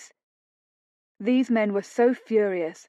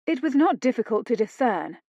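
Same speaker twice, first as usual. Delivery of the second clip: snapped; 3 semitones higher than usual. Acted. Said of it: "she snapped".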